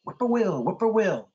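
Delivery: sing-song whippoorwill cry; whippoorwill call. A narrator's reading. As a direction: call the name like the bird itself. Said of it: "A whippoorwill whistles from the edge of a swamp".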